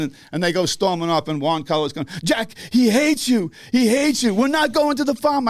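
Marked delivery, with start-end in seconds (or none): 2.2-5.5 retold dismay. Manager retold after stormy exit.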